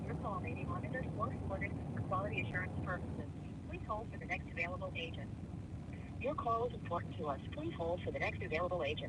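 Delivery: recorded hold message over speakerphone; automated phone system voice; phone menu voice. Real, not acted.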